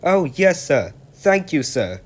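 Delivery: Percy thanks the Fat Controller, high and delighted; happy. Acted. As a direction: burst with joy at the name. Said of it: "said Percy happily".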